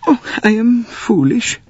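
high, upset Swedish lady. Acted. Swedish lady fretting to the passengers, high voiced. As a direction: lift the voice, fretting for her family.

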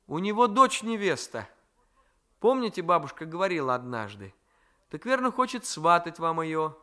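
put-on a shy young girl guessing; young girl's voice. Marfenka answers.

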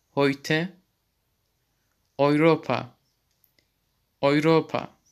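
heute said HOY-teh and Europa oy-RO-pa; German eu sound. Shown as a demonstration. Teacher demonstrating the eu sound, carefully. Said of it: "oy şeklinde okunmaktadır".

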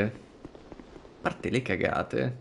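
very slow and hushed; slow soft trailing. Shown as a demonstration. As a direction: stretch it out quietly. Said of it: "repeated softer".

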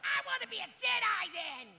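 eager. Acted. Eager shout at improv.

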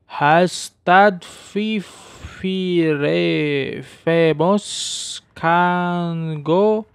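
slow, loud, high reading; loud dramatic reading. Real, not acted. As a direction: read it out big and dramatic. Reading in-game note aloud.

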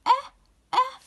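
short "أه" sounded alone, twice; isolated "أه", cut short; hamza with fatha. Shown as a demonstration. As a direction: sound out "أه" as a short open vowel. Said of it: "ما حركته؟".

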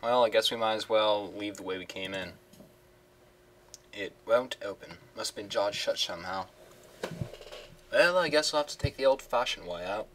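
a hammy, lightly put-on British accent; terrible British accent. Gentleman thief finding the safe empty, in a terrible British accent. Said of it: "I shall do terrible British accents".

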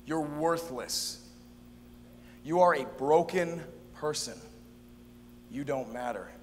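slightly low, measured put-down; a hint of a grim accusing voice; foreboding inner voice. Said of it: "that voice wasn't always foreboding".

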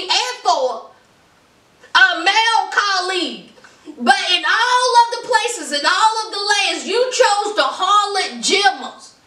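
hammed-up scolding, starting high; indignant rant. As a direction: list each option in mock outrage. Acting Eve's indignant rant at Nico.

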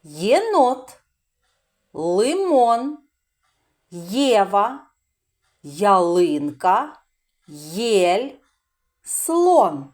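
teacher reading a word list; clear listing. Shown as a demonstration. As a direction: read the words slowly, one by one, for children. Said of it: "Послухайте слова".

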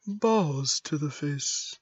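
loosely faked robot, slow and even; robotic voice. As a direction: drag it out like a calm robot. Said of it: "I can't do a robotic voice".

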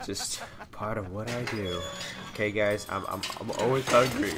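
talking while eating; words round a mouthful of food; mouth full. Real, not acted. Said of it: "I'm eating food again".

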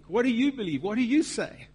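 "you" lifted in each short question; stress on YOU. Real, not acted. Preacher challenging believers, stress on each "you".

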